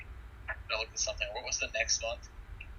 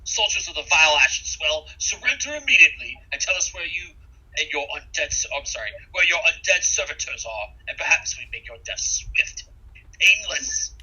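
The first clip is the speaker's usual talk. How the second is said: shouting soldiers; 4 semitones higher, 6 dB louder than usual. A narrator's reading. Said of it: "begin to shout in Taldan".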